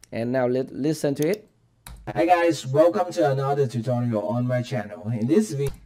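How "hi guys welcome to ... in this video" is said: robotic AI voice effect. Shown as a demonstration. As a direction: sound like a synthetic robot. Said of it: "it is a robot voice".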